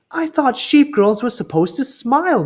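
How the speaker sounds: peer at the picture, puzzled; puzzled thief. Acted. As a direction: thief Luther studying the painting. Luther puzzled at painting.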